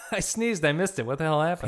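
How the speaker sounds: lightly hammed-up confusion; bewildered viewer. Viewer who missed the big reveal, mock bewildered.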